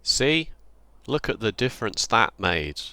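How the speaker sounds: dry sarcastic brag; mock pride, deadpan. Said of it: "That's sarcasm".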